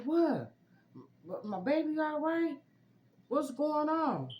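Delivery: very high, loud alarmed questions; retold panic. Expectant mother questioning the ultrasound lady, acted-out fright. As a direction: imitate a scared mother, voice shooting way up. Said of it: "So I'm super scared".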